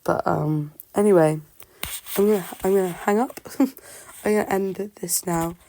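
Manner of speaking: talking with a sore throat; strained voice from swollen tonsils. Real, not acted. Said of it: "I'm sorry about my voice and my throat".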